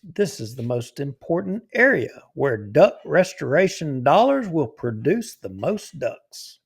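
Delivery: a hint of a Southern gentleman, unhurried. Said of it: "in my Southern gentleman voice".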